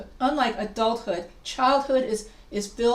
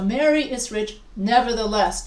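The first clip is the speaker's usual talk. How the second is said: NEVERTHELESS given a louder push; slight emphasis; 4 dB louder than usual. Shown as a demonstration. Teacher showing a transition's weight, slight stress on NEVERTHELESS. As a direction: lean a little on "nevertheless". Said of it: "has a slight emphasis on this".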